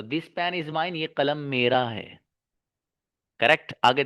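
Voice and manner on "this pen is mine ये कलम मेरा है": slow model sentence. Shown as a demonstration. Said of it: "mine के बाद कोई noun नहीं".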